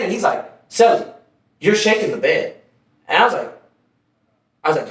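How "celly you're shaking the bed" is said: "Celly" raised, then settling; mildly irritated imitation, calling out the first word; cellmate getting annoyed. Cellmate complains a second time to his celly, mildly annoyed. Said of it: "he was getting mad".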